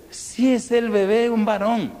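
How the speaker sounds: high, loud, drawn-out cheer; happy announcement. Retold or imitated. Doctor showing the father his newborn son, happily announcing. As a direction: proudly present it, imitating a delighted doctor.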